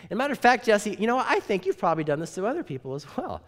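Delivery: put-on high, loud old woman accusing him; accusing old lady. Doris accuses Jesse.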